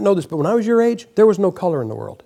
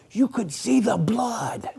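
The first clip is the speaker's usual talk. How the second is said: put-on excited boys; 3 semitones higher, 9 dB quieter, slower than usual. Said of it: "I can remember us guys going".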